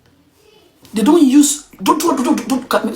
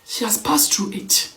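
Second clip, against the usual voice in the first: slow, breathy hushed whisper; 5 semitones lower, 7 dB quieter, slower than usual. Real, not acted. Vlogger whispering an aside to viewers, slow hushed whisper. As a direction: drop to a slow secret whisper.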